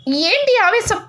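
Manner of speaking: high, pleading question to a raging husband; urgent plea. Acted. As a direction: pull him back with a high plea. Wife stops angry husband. (పైస్థాయిలో ఆత్రంగా ప్రశ్న)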